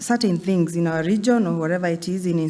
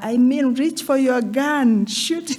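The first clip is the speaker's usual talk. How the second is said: high, slow, desperate pleading tone. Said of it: "desperately trying to tell her".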